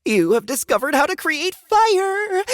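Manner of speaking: system announcement voice. Acted. Game system announces new skill.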